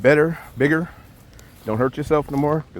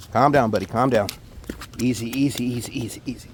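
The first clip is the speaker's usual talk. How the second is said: soothing a scared dog; 3 semitones lower than usual. Real, not acted. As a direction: hush it gently. Calming a thrashing fish.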